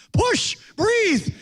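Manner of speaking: loud high yell of push and breathe; movie doctor yelling. Retold or imitated. Doctor yelling at the pregnant woman, loud commanding shout. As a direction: bark it like a movie doctor at a birth. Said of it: "The doctor was yelling".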